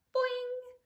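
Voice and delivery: high, springy boing; child's cheeky yell through a mask. A narrator's reading. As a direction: pop it out like a spring.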